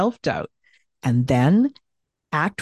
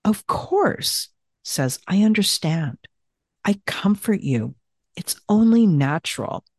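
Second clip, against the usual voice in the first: comforting tone. Shown as a demonstration. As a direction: soothe yourself kindly. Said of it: "Feel the emotion that goes with that".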